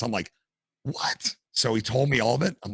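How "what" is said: whispered surprise. Retold or imitated. Hearing cops and firemen are attendants.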